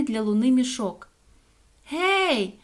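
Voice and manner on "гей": high, drawn-out hail; calling out. A narrator's reading. Соня calls down into the manhole, a high shout. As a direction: call down into a hole. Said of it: "крикнула Соня".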